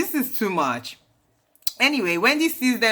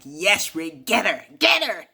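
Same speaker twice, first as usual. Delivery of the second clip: playful egging-on. Retold or imitated. Viewer cheering Ray's joke at Giselle, playful egging-on. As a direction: jump up in pitch to goad someone on. Egging Ray on, then laughing.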